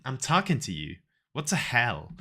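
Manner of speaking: put-on half-hearted American accent; attempted American accent. Second go at the American lady, weak American accent. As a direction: try an American accent without conviction. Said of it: "How do you say it in American?".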